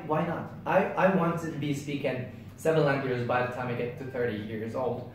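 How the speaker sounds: usual speaking voice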